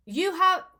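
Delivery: high, loud stab at British; attempted British accent. Retrying the landlord's line as an Englishman, attempted British accent. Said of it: "am I British?".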